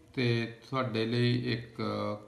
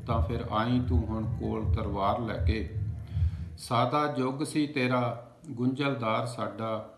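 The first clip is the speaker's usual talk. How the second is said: measured, projected verse recital; declaimed Punjabi poetry in even cadence; poem recitation. Acted. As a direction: recite it line by line with a steady beat. Recites a poem after introducing it.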